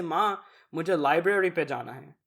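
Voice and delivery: "library" in unaccented American English inside Urdu; whitewashed American accent. Shown as a demonstration. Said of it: "That just makes you sound whitewashed".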